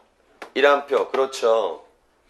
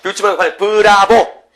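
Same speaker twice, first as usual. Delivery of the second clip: rallying shout; 4 semitones higher, 8 dB louder than usual. Shown as a demonstration. Teacher urging students not to laugh but cheer, rallying shout. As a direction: get the whole class shouting along. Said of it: "하고 외치겠지?".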